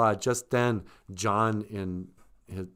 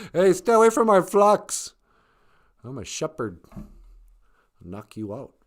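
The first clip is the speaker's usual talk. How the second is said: mock shepherd shout; 7 semitones higher, 8 dB louder than usual. Shepherd threatens wolf.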